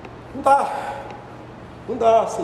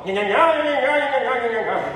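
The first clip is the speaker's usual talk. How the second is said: formal babble. Retold or imitated. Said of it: "um nhanhá mais formal".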